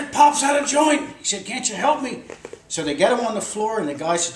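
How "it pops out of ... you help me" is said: retold pained plea. Injured man pleads in retold scene.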